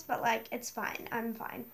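talking through a blocked nose; congested, nasal cold voice; stuffed nose. Real, not acted. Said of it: "I have a bit of a stuffed nose".

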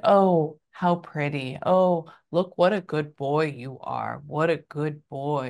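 slow, patronizing mock sweetness; condescending niceness. Man talking to the client's cat, imitated condescension. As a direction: imitate someone trying too hard to be nice to a pet. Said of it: "condescending and".

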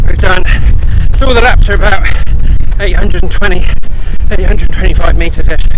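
breathless mid-run talk; talking between breaths on the move; while running. Real, not acted. Talking mid-run on recovery lap.

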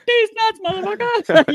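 high, loud, hammed-up punchline. Locker-room prankster springs the joke on a teammate, high loud gotcha. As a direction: bark the gotcha line at a teammate.

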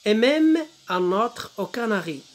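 slow, measured French verse reading; poem recitation. Shown as a demonstration. Teacher reads the poem to pupils, slow poem recitation. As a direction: stretch out the verse for learners.

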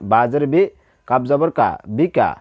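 বি and কা cut short with no stretch; quick short vowels. Shown as a demonstration. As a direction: read বিকা briefly, neither vowel held. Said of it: "হরকতের উচ্চারণ তাড়াতাড়ি পড়িতে হয়".

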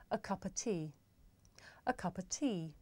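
A cup of tea with A and of as a short uh, cuppa tea; natural weak forms. Shown as a demonstration. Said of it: "Listen and repeat after me".

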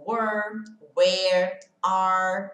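"were, where, are" with the R curled back; English R. Shown as a demonstration. Teacher lists words to show the curled English R. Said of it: "Palavras como, por exemplo".

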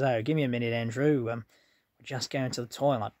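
imitated Australian accent; quoting her in an Australian accent. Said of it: "'cause she's Australian".

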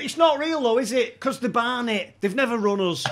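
high, loud protest broken by laughter; laughing while quoting. Retold or imitated. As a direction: tell it through your own giggles. Lanks protests, teller laughing.

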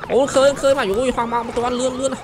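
high, loud excited reaction; startled outcry. Real, not acted. Player reacting mid-chase in the game, startled. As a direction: cry out as the chase goes wrong.

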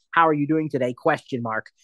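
spoken punctuation. Shown as a demonstration. Teacher showing how to dictate with spoken punctuation. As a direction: say "question mark" aloud after the sentence. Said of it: "I could have".

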